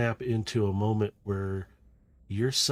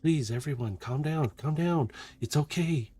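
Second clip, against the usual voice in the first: lightly voiced, higher-pitched soothing plea; Carbine in the distance; 5 semitones higher than usual. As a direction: gently hush a crowd, voice raised in pitch only. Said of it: "You can hear Carbine in the distance".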